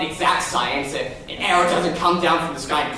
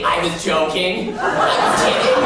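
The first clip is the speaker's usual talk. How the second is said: mock backpedal. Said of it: "Do you say".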